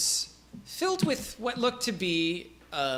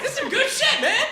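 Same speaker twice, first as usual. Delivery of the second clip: much higher, laid-back dude voice; Dale the peasant; 4 dB louder than usual. Acted. Peasant Dale introduces himself, high and chill. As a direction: shrug it off easily. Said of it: "But he's just like".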